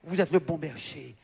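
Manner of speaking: low, very soft address to God; low, subdued praying voice; hushed retold prayer. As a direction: drop into quiet, reverent prayer.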